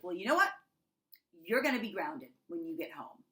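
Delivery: mock stern warning, loud rising start; threatening parent. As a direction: imitate a fed-up parent laying down punishment. Retold threat to her child.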